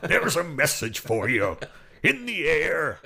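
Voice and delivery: mock grumpy farmer singing; angry farmer. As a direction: growl it like a cross farmer. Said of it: "he does sound a bit like an angry farmer".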